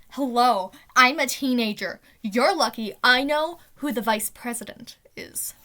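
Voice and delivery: put-on loud, emphatic teenage indignation; indignant outburst. Teen defending her thin resume, loudly indignant. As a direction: protest it loudly, punching the key words.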